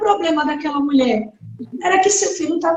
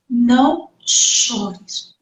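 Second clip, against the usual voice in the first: gentle comfort; 5 semitones lower, much slower than usual. Acted. Jesus to the grieving widow, slow tender comfort. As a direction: soothe a weeping mother gently.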